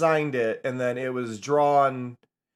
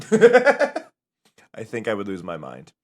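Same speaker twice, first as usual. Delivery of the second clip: slow, lower, louder with a laugh through "I think I would lose my mind"; laughing, drawn out; 6 semitones lower, 5 dB louder, slower than usual. Shown as a demonstration. Laughing at the idea of a voice stream, drawn out. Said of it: "laughing retake".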